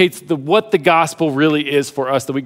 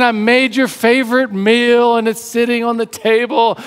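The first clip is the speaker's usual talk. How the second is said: sweet-talking wife; 2 semitones higher than usual. Acted. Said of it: "And then she's saying".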